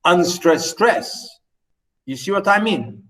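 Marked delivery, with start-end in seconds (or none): 0.0-1.3 slow, unstressed stress drawn out; naming the beats. Shown as a demonstration. Teacher showing the reading he rejects, spoken slowly. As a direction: lay out the iambic pattern slowly. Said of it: "I can't read this as".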